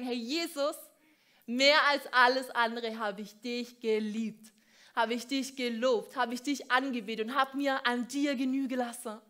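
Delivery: hey Gott, hier ist mein Herz, as if standing before him; a believer presenting his heart to God; imagined prayer. Pretend. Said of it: "dass wir ... sagen können".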